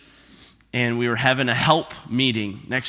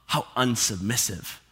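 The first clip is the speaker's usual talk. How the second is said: mock indignation; 4 semitones lower, 4 dB quieter than usual. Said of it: "I remember thinking".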